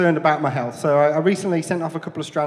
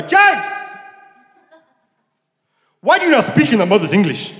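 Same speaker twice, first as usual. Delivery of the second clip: much higher, louder scouse-tinged dad; Liverpool dad impression; 8 semitones higher, 8 dB louder than usual. Comic dad scolding his son in a bad Liverpool accent. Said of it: "I'm not very good at doing accents".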